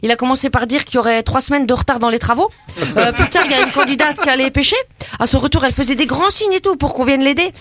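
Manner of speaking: put-on brash teen girl from the estate, chatty and cocky; cheeky suburban girl. Comedy guest chatting to the radio host as a cocky suburban girl. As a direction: play a gossipy banlieue girl full of slang. Same character continues.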